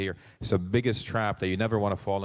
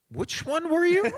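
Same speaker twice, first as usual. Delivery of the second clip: curious friend; 4 dB louder, slower than usual. Retold or imitated. Friend asks after seeing movie.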